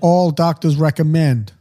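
slow mock announcer slogan; drawn-out put-on advertiser voice; sixties ad man. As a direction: chime in like an old-time pitchman. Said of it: "Why are we talking like this?".

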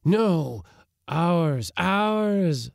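high choral insistence; chorus of voices. A narrator's reading. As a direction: sing it out like a crowd of spirits. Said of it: "sang ten voices".

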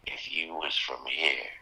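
quoted local man. Retold or imitated. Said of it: "And he said".

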